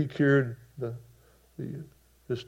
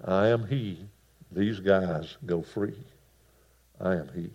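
gentle Jesus; 4 semitones lower than usual. Acted. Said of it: "Gentle Jesus, meek and mild".

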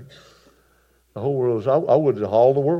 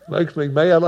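usual speaking voice

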